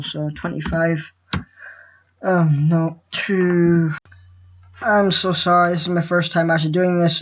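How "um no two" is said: stuttering. Real, not acted. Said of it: "and I'm stuttering".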